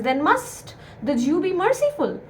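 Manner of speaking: teacher's emphasis on "must"; stress on must. Shown as a demonstration. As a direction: lean on "must", then finish the question. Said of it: "emphasize on the word must".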